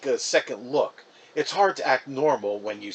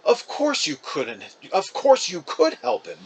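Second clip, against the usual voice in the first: scolding; 4 semitones higher, 3 dB louder than usual. Acted. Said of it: "Mom scolded".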